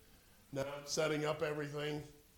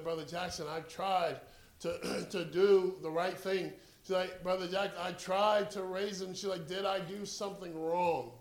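higher, a touch of tearful pleading; lightly voiced mother near tears; 3 semitones higher, 4 dB louder than usual. Grieving mother asking the preacher if she failed, mildly tearful. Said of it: "tears began to flow down her face".

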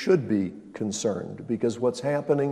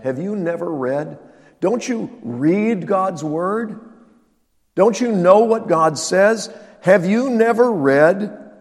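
rebuking; 3 semitones higher, 3 dB louder than usual. Retold or imitated. Jesus rebuking religious leaders.

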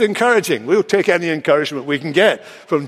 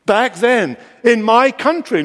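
higher, pointed emphasis on "my country"; underlined "my country"; 5 semitones higher than usual. Acted. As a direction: lean on "my country", pitched higher. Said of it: "Notice, he underlines "my country".

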